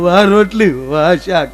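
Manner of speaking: mock complaint. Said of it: "કોઈ દી ન કીધું".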